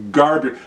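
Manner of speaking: put-on garbage said slowly and pointedly, as to a child; exaggerated, condescending garbage; spelled-out garbage. Shown as a demonstration. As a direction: lean hard on garbage so nobody can miss it. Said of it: "I have to say it like that".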